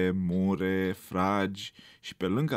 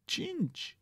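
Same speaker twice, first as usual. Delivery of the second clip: whispered prompt; 7 dB quieter than usual. A narrator's reading. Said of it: "îi suflă cineva de alături".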